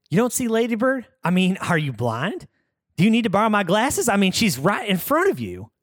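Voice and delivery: mocking. Peggy mocking Hank.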